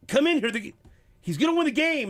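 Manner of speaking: high, loud excited call; retold yell. Husband urging his wife to come watch, excited mock yell. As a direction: re-enact hollering for someone to come quick. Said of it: "I'm yelling at my wife".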